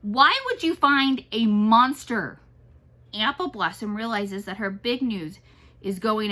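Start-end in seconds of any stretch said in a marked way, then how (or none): 0.0-2.4 loud, slow alarmed question. A narrator's reading. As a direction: sound genuinely worried. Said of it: "Antonio is even more alarmed".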